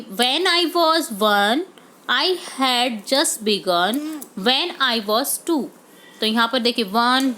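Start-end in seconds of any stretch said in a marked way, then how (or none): 0.0-5.6 very slow recited poem lines; slow poem read. Shown as a demonstration. Teacher reading the poem slowly to students.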